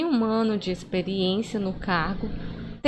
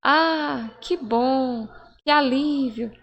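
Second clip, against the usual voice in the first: higher, relieved sigh of joy; relieved exclamation; 3 semitones higher, much slower than usual. Shown as a demonstration. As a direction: show relief. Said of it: "frasezinhas que indicam surpresa". (alívio exclamado)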